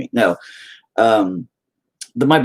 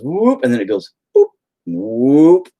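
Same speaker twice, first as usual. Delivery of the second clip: imitated swoop; 4 semitones higher, 5 dB louder, slower than usual. Traces the scar's path with sounds.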